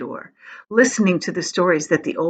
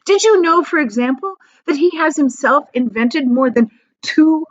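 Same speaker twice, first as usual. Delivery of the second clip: raised, eager telling; eager grandpa; 3 semitones higher, 3 dB louder than usual. Acted. Grandpa Joe telling Charlie of Wonka, eager. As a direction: lean in with delight.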